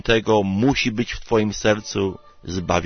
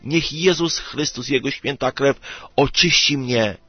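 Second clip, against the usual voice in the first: higher-pitched, earnest plea to God; raised-pitch model prayer for mercy; pleading prayer; 5 semitones higher than usual. Acted. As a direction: pray it aloud, voice lifted in entreaty. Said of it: "módl się do Boga i mów tak".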